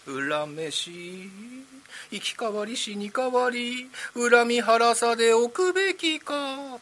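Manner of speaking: slow, high eerie ghost wail; drawn-out spooky ghost lament; ghost's line. Shown as a demonstration. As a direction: moan it slowly like a classic rakugo ghost. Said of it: "顔を下から上へ寝め上げながらセリフを言ってください".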